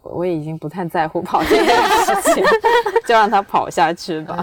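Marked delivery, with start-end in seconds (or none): 2.7-4.4 laughing it off; chuckling resignedly. Real, not acted. Laughs giving up on topic.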